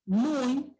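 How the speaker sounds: "Muy" drawn into a u-i glide; Y sounded as I. Shown as a demonstration. Teacher explaining the diphthong to pupils, Y sounded as I. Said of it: "la Y está sonando como una I".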